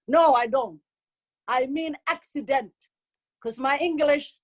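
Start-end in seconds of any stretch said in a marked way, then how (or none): 1.5-2.7 "accident" said in full, with its middle syllable; insisting on "accident". Shown as a demonstration. Comic correcting the audience, "accident" pronounced in full. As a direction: sound out every syllable of "accident". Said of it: "It's not accent".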